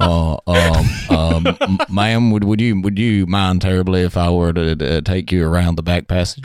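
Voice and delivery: mock bashful suitor. Playing the posh British suitor.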